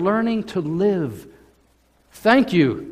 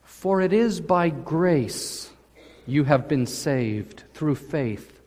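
slow scripture reading; 2 semitones lower, slower than usual. Shown as a demonstration.

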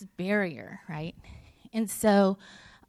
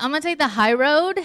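louder, rising and determined; a louder, decided take on the high road; resolute declaration; 5 semitones higher, 7 dB louder than usual. Retold or imitated. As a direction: announce the choice with resolve. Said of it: "But I was like".

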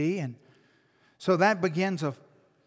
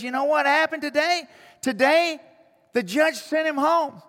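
higher and louder, bubbling over with the news; excited news; 9 semitones higher, 6 dB louder than usual. Retold or imitated. Grandmother calling her pastor with the judge's ruling, excited. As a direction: let the joy spill out of the quote.

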